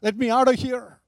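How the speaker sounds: high, loud desperate plea; crying out. A narrator's reading. Woman in the pit begs to get out, crying out. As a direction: cry out to be released. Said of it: "She was crying".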